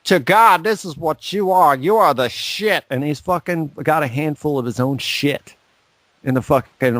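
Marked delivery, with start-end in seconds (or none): 0.1-2.8 preachy mock rant. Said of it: "he's like".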